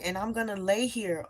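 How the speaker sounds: restrained retold yell. Telling God she won't move, restrained retold yell. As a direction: imitate yelling, holding the volume back. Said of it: "I'm just describing because I was yelling".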